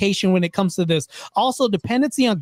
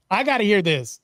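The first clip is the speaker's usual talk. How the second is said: laughing under the breath; holding back laughter; stifled giggles. Real, not acted. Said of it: "Sorry, I'm trying not to laugh as hard".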